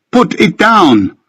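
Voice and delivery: high, drawn-out slow scream; screamed plea. A narrator's reading. Benjamin screaming in Ricky's ear to put it down. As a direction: scream it, dragging every word. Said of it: "screaming it in my ear".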